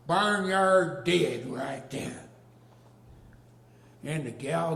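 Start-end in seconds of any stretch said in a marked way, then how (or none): 0.1-2.3 deadpan. Acted. Deadpan punchline.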